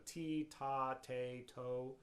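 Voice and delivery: "T, ta, te, to" as separate level syllables, each with a T front; "T, ta, te, to" recited evenly as example syllables; T articulation syllables. Shown as a demonstration. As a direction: demonstrate "T, ta, te, to", each starting on a clear T. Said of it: "something with the front of a T".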